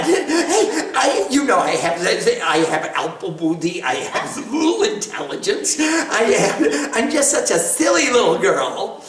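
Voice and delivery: laughing through a false humble plea; mock-humble giggle. The goddess teasing the demons' messenger, laughing. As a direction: play the silly little girl with a chuckle.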